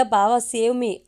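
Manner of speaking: brother-in-law fleeing a broom, mildly yelling for help; mock yell for help. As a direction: call out to the brother-in-law, half in fun. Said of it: "అని అరుస్తున్నాడు".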